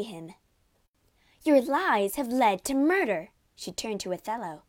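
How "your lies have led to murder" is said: high, loud, blazing reproach; furious accusation. A narrator's reading. Maid confronts her lying husband, furiously. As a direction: accuse him with full force.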